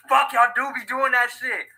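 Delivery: loud, high laughing yells; cracking up out loud; laughing shout. Real, not acted. Reacting to hand-twist joke.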